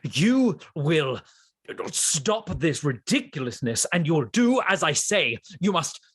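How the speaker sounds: stern ghost. Acted. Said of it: "this ghost says".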